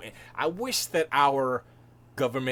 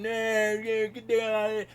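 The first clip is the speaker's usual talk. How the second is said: high, raised heckler's cry; imitated crowd yelling; 10 semitones higher, 5 dB louder than usual. Streamer imitating people yelling in Parliament, high mock heckling. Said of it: "a whole bunch of people yelling".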